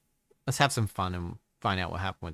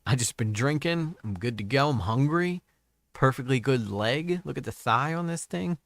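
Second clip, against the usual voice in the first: sly nasal snickering whisper; 4 semitones higher than usual. Retold or imitated. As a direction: play a gleeful thief. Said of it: "to be like".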